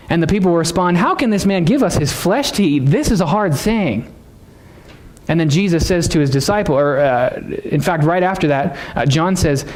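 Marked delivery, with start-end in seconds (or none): 1.0-4.1 higher-pitched imitation of a protesting crowd; incredulous objection. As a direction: act out the crowd balking, slowing at the end. Crowd objecting to hard teaching.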